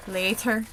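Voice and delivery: "later" with a dental T; Irish-style dental t in the middle of "later". Shown as a demonstration. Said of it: "we've got that dental T".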